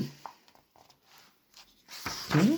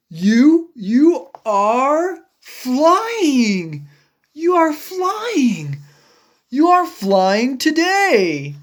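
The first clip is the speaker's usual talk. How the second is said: amazed; 2 semitones higher than usual. Acted. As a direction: marvel at the sight. Amazed exclamation at flight.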